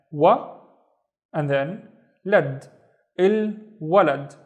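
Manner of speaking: "wa" and "lad" drawn out, then "Il walad"; syllable by syllable. Shown as a demonstration. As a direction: slowly piece together "Il walad". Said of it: "the first syllable of the first word is il".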